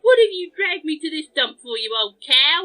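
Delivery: loud, cheeky dummy voice; ventriloquist's dummy. Acted. Ventriloquist's puppet complaining to its partner, loud dummy voice. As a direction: throw your voice loudly as a rude puppet. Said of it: "She's doing ventriloquism".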